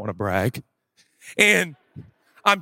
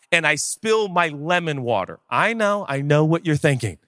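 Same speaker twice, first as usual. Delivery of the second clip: normal talking voice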